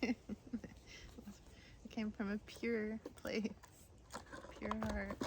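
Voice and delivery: slow, drawn-out sincere line; slow tender half-joking insistence; earnest. Real, not acted. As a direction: plead your case slowly. Slow earnest mock defence.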